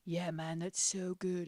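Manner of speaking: mock singer impression with a dopey accent; a hint of dumbass singer accent. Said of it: "in his little fucking dumbass singer accent".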